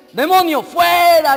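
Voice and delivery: imitated exorcism shout. Preacher imitates people shouting at a demon, mock exorcism shout. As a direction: imitate someone bellowing a demon out. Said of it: "empiezan a gritar".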